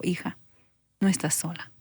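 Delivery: más suave, tierna y tranquila; voz dulce y amorosa. Retold or imitated. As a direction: consuela a la hija como un padre amoroso. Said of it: "esa voz dulce, suave, esa voz tan amorosa". (la voz de Dios consuela a la hija, suave y dulce)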